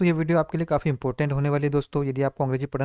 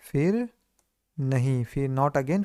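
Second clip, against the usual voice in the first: slow recap; much slower than usual. Shown as a demonstration. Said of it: "क्या हो जाएगा दोस्तों?".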